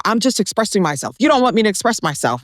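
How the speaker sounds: imitating angry ex. Woman quoting her ex defending his outbursts, mock angry. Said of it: "he would get angry at that".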